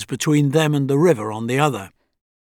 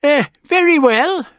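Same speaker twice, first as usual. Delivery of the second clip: put-on stern high old man; 12 semitones higher, 5 dB louder than usual. A narrator's reading. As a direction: give way but stay stern. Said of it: "his voice stern".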